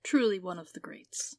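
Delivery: hushed whispered documentary narration; David Attenborough voice. Acted. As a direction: whisper like a reverent wildlife narrator. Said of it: "the fake reporter documentary voice".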